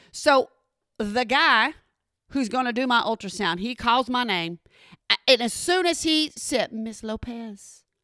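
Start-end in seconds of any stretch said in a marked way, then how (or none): 6.7-7.8 very soft, quiet, tender, compassionate and kind tone. Retelling how the ultrasound guy called her name, imitating a gentle compassionate voice. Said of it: "he said it in a most gentle, kind, compassionate way".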